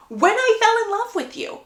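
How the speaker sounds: mock scream. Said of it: "Gareth literally screams at her".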